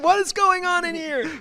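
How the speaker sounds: high, hammed-up doctor barging in; doctor bursting into a hospital room, high mock alarm. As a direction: play a startled doctor walking in on them. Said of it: "The doctors come in?".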